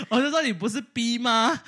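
loud, laughing retelling of her own question; giggling through the quote. Real, not acted. 笑着复述尴尬电话. (笑着大声复述)

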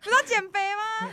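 hammed-up boss snapping at the coworker; mock shout. Boss yelling, retold again. (模仿老板大声吼同事)

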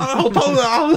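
high laughing mock wail of pain; hammed-up pain cry. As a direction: wail it like a cartoon goon. Thug screaming in pain.

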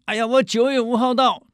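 high breezy announcement; casual emperor. Retold or imitated. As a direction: toss it off casually. Emperor announces visit date.

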